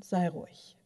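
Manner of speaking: ordinary delivery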